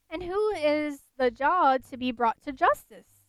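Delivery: with some concern. Acted. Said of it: "with some concern".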